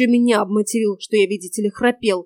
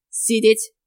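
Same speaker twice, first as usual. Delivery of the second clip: half-voiced bark; 4 dB louder than usual. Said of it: "полголоса рявкнула я".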